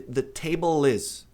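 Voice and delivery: The table is, slowly, L joined onto is; linked pronunciation. Shown as a demonstration. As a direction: link the L of table into is. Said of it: "A mesa está ... vai ser". (pronúncia com ligação do L)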